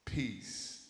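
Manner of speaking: loud, firm command to the storm; booming command of calm; commanding shout. Acted. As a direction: order the wind to calm down. Preacher voicing Jesus calming storm.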